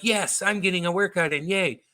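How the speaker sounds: put-on workout enthusiasm; mock cheer. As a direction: play an oblivious neighbor enjoying his workout. Neighbor happily exercising, acted out.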